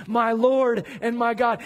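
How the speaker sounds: firm, emphatic declaration; Thomas, committed. Retold or imitated. Preacher voices Thomas now committed, firm proclamation. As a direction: proclaim it with full conviction. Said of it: "to committed".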